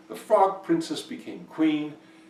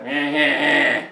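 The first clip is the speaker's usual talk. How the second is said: loud bleating swan noise; swan honking; 8 dB louder, slower than usual. A narrator's reading. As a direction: honk back dismissively in short bursts. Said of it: "the swan said".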